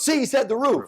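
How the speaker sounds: hammed-up proud owner; eager dog owner. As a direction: prove the dog talked, squeaky and eager. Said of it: "And he goes".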